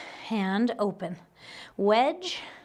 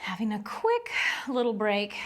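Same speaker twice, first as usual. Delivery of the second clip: emphasis on the word "little"; stress on little; 3 semitones lower, 3 dB quieter than usual. Real, not acted. Instructor announcing a short pause to the class, stress on "little". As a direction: lean on "little", softly playing up how brief it is. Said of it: "emphasis on the word little".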